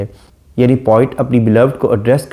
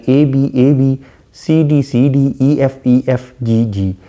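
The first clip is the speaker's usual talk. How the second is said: slow recap of rhyme scheme; 3 semitones higher, slower than usual. Shown as a demonstration. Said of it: "ये थी इस poem की rhyme scheme".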